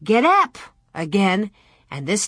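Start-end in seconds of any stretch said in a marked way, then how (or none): 0.0-0.6 raised, firm command; stern. A narrator's reading. Almanzo commands the stopped calves, stern. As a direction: order the animals firmly. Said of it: "Almanzo sternly said".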